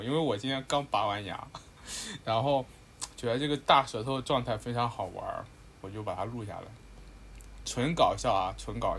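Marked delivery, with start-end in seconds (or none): 0.0-6.7 numb mouth after a tooth pulled; thick-tongued slur. Real, not acted. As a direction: talk with an anesthetized tongue.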